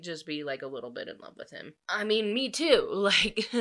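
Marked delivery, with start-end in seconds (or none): 1.9-3.5 giddy agreement. Real, not acted. Gushing over being defended.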